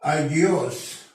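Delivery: أجيوس said as "agios", hard g; Coptic word demo. Shown as a demonstration. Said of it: "مثل كلمة". (نطق أجيوس بوضوح كمثال)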